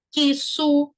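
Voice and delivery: QUIÇO as two separate beats, "ki... so"; sounding out the X. Shown as a demonstration. Teacher isolating the two phonemes of X, sounded out. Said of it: "Tem dois fonemas".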